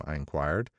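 usual speaking voice

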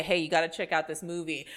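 loud baffled friend; confused moviegoer. Retold or imitated. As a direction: shout it like a puzzled fan. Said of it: "them to go out there and say".

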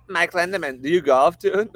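put-on voice. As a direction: ask it in a silly put-on voice. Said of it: "Why did I do that voice?".

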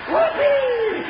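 joyful whoop. Acted. Celebrating the win.

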